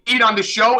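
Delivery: loud laughing rebuke; laughing scold. Real, not acted.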